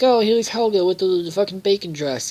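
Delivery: high hammed-up runway host; mock announcer. Host announcing Helga's bacon dress, hammy high announcer. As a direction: present her like a hammy emcee. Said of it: "he's like".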